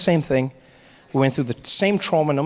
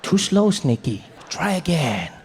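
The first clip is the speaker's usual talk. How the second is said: taunting snake charmer; slower than usual. Acted.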